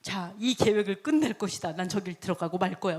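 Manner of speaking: a hint of stubborn royal resolve; arrogant king. Arrogant king vowing to go inside, mildly haughty. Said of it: "왕은 거만해서".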